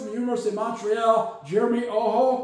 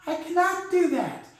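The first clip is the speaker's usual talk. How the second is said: genie voice; 7 semitones higher than usual. Acted. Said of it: "Okay, I cannot do that".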